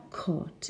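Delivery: "caught" with no R sound; received pronunciation. Shown as a demonstration. Teacher demonstrates homophones, "caught" in received pronunciation. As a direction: say "caught" the RP way, without any R. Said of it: "But in received pronunciation".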